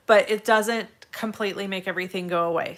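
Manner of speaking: slightly raspy, congested voice. Real, not acted. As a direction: talk through a raspy, irritated throat. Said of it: "So I still have kind of a raspy voice".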